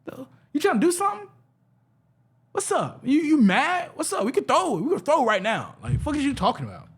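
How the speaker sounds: squeaky high voice, hammed up to mock the bass comment; mock high-pitched voice. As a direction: pitch it way up and get in his face, half joking. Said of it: "I got a high-pitched voice".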